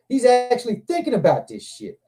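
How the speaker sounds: high-pitched incredulous realization; acting out astonished disbelief; retold disbelief. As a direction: go up high, amazed at the dog's nerve. Retold disbelief at circling dog.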